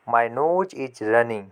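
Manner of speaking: very slow, each word laid out for learners; teacher dictating a phrase to children, spoken very slowly; slow model sentence. Shown as a demonstration. Model it slowly for the class. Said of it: "इसको कैसे पढ़ेंगे, बोलेंगे".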